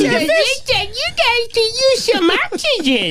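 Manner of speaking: slow taunt. Retold or imitated. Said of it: "He's like".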